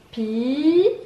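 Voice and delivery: "Pirate" as long pi, pause, rate; syllable by syllable. Shown as a demonstration. Teacher recounting, "Pirate" stretched and split in two. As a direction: draw out the first beat of "Pirate", then separate the second. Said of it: "Deux syllabes".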